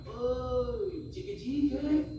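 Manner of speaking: seruan tinggi penuh bangga; bangga memanggil. Retold or imitated. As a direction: panggil dengan bangga dan nada naik. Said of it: "dia bilang dengan bangganya". (bapak Taiwan memanggil penceramah dengan bangga)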